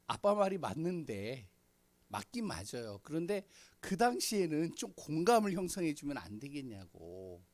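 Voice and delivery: mildly retold complaint, rising in pitch; concede, then argue back, as an imitated child; protesting child. Child asking father for empathy after a talk, mildly protesting. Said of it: "막 그러면서 이제 따지는 거예요".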